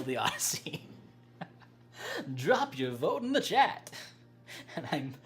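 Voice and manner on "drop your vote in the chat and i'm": higher, louder call for votes; rally the chat to vote; upbeat call to chat. Real, not acted. Streamer calling out to chat to drop votes, upbeat and loud.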